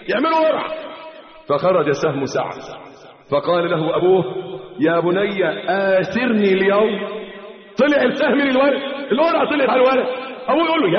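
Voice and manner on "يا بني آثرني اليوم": pleading father. Retold or imitated.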